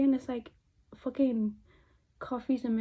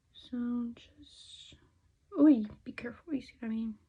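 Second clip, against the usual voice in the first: whispering. Real, not acted. Careful whispered makeup instruction.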